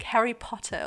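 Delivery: lightly British imitation of her old accent. Recalling how she said it for host parents, mildly British. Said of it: "I said it way more British".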